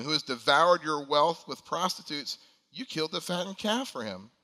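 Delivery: a bitter son venting at his father; indignant eldest son protesting; angry older son. Acted. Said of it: "he answered and said to his father".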